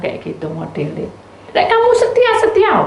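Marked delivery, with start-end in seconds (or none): 1.5-2.7 emphatic call. Real, not acted. Preacher's urgent exhortation.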